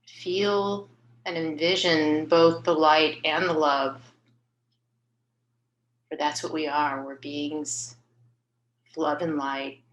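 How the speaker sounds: unhurried meditation voice with long pauses between phrases; guided meditation. Acted. Host leading her healing group in a meditation on light, guided meditation. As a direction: guide listeners gently, phrase by phrase, leaving space.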